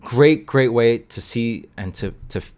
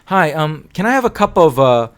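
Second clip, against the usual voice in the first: lightly acted hesitant order, raised pitch; customer ordering; 3 semitones higher, 5 dB louder than usual. Shown as a demonstration. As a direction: play a learner asking at a counter. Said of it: "if I say this".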